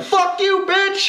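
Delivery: high mock trash-talk shout; trash talk yell. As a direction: snap it at an online rival.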